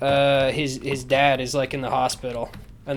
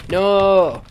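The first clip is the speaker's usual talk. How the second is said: mock dramatic; 2 semitones higher, slower than usual. Son to the mom who left him, mock dramatic. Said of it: "It's supposed to be really dramatic".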